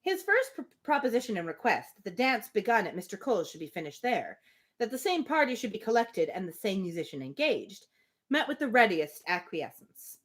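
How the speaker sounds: measured, even storybook reading; steady literary narration; reading a novel aloud. Acted. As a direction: read the passage to the group like an audiobook.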